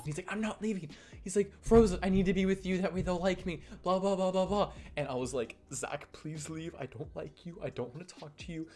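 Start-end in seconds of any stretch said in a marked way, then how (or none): 0.3-4.7 a hint of a whiny boy, a bit higher; lightly voiced boy who won't budge; mock stubborn boy insisting, a touch higher. Zach refusing to leave. 5.7-8.7 mock quiet plea. Pleading with Zach to leave.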